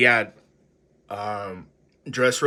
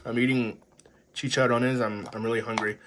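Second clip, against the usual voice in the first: crunching chips. Real, not acted. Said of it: "I'm crunching".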